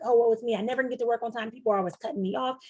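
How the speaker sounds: mildly whiny, woe-is-me complaint; hammed-up poor-me grumbling; bitter self-pity. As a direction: lightly act out a bitter moan. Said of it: "you're bitter".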